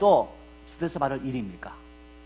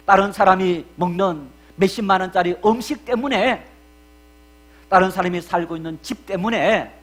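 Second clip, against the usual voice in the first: rising preaching; 2 semitones higher, 7 dB louder than usual. Acted. Preaching builds in loud list.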